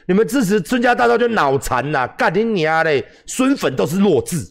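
hammed-up angry troll ranting; mocking troll comments. Mocking troll comments to his livestream viewers, jeering. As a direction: spit it out like an online troll cursing. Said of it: "哦，类似这样".

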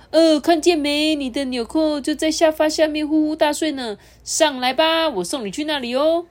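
high, cheerful chuckling voice; laughing. Acted. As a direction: say it with a smile. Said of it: "笑着说".

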